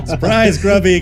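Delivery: high, bubbly put-on voice; Liv's voice. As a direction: pitch way up for Liv. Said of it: "Just do Liv's voice".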